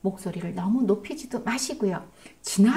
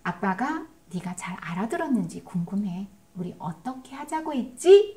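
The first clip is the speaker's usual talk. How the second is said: gentle checking question. Shown as a demonstration. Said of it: "이렇게 물어보는 거 좋습니다".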